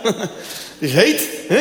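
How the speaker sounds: very slow, suggestive cleaner voice; slow flirty drawl. Retold or imitated. Claudia teasing the husband about the heat, very slow suggestive drawl. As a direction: stretch it out seductively.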